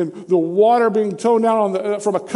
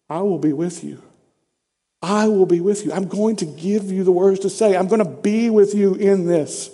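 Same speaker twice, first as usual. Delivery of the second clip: reassuring God's voice. Retold or imitated. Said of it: "God is saying here".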